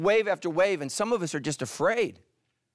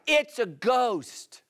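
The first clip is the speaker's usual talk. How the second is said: slow, drawn-out mock cry, higher; scared disciples; 7 semitones higher, much slower than usual. Pastor retelling the disciples' cry, slow mock fright. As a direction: stretch it out like a spooked sailor. They cried out.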